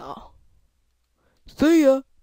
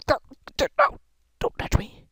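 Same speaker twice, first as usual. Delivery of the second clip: mock disgust; 8 semitones higher, 7 dB louder than usual. Dodging other players in game.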